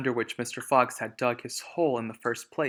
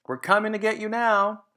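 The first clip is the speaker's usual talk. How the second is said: high, loud, put-on villain voice; menacing taunt; 10 semitones higher, 7 dB louder than usual. Bunce taunting Mister Fox from his tractor, loud. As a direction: threaten him gleefully.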